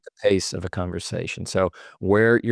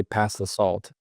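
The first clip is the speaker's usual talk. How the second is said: "Pass the salt" falling at the end, softly; quiet, settled drop on "salt"; downward inflection; 4 dB quieter, slower than usual. Shown as a demonstration. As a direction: say "Pass the salt" as a statement, pitch going down. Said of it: "It's the downward inflection".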